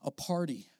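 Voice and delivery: high, eager father voice, promising everything; father's excited promise. Retold or imitated. Father welcoming his son home, high and eager. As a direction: gush like a proud father planning a feast. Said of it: "He says".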